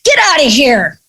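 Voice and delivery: "What?" jumps very high in disbelief; shocked and thrown; stunned disbelief. Retold or imitated. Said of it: "And I'm like".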